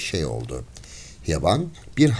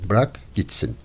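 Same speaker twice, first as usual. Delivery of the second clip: plain reading voice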